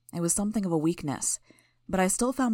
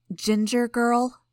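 slow, higher and louder, archly questioning; archly affronted query, pitched up; 6 semitones higher, 6 dB louder, much slower than usual. A narrator's reading. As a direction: draw out the nickname as an arch challenge. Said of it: "Sierra asked archly".

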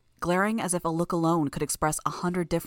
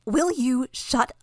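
muffled; 7 semitones higher, 6 dB louder, slower than usual. Acted. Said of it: "Sophia's voice was muffled".

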